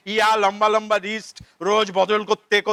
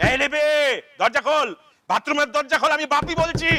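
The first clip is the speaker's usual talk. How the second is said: raised, higher voice through a locked door; calling through door; 6 semitones higher than usual. Acted. Father calls through the bathroom door, raised and higher. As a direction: call out to the daughter behind the door.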